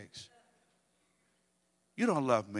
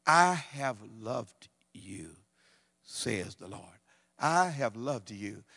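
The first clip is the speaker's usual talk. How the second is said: slow tender reading; 3 semitones lower, much slower than usual. Acted. Preacher reading God's words to Israel, slow and tender. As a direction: let each word land slowly.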